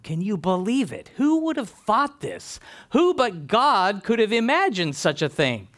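building from hushed wonder to high-pitched marvelling; joyful amazement. Acted. Sarah marvelling at a child in old age, amazed. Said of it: "her laughter went from scoffing".

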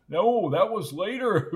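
high-pitched line ending in a cackle; gleeful cackled reply; cackling. A narrator's reading. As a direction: crack yourself up with the punchline. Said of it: "cackled Wendell".

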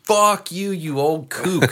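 real anger. Real, not acted. Angry at the old neighbor, slow laughing curse. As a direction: vent it with a laugh. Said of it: "It's making me mad just talking about it now".

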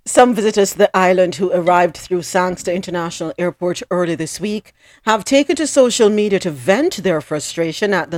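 news read. Acted. Reads news item.

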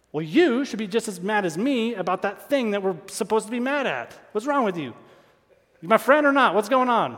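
hammed-up indignation, pressing him; mock angry rant. Preacher imitating himself attacking great friends, a mock angry rant.

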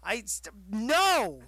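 loud no to the sugar-loving critic; firm loud no. Retold or imitated. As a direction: shut him down hard. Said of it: "I'm like".

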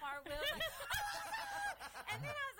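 high, bursting laugh of pure joy; real gleeful laughter. Real, not acted. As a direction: laugh out loud with glee. Joy over donation call.

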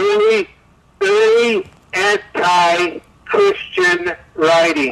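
trembling, wavering voice on the line; shaky vibrating voice. Real, not acted. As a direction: voice shaking and buzzing. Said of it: "Your voice is vibrating".

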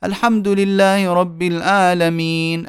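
mock pious recitation. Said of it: "يقرأ وكأنه يخشع فيقول".

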